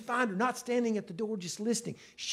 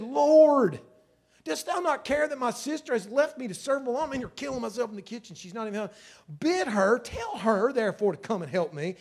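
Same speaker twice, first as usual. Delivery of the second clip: loud, higher, harried outburst; the overworked sister who's had enough; exasperated complaint; 5 semitones higher, 4 dB louder than usual. Retold or imitated. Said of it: "came to him and said".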